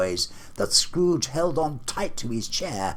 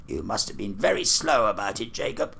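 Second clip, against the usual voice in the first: businesslike; faster than usual. Acted. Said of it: "in a businesslike manner, though with humility".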